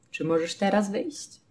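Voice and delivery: Czy możesz teraz wyjść, soft and even; soft neutral repeat. Shown as a demonstration. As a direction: ask it gently with no emphasis. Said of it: "ale tak normalnie".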